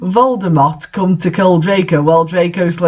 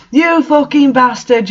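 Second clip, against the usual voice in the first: higher, hammed-up yell; mock angry yell; 7 semitones higher than usual. A narrator's reading. Draco yelling at Vampire, hammed-up anger. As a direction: sneer it like a cartoon rival. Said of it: "yelled Draco at Vampire".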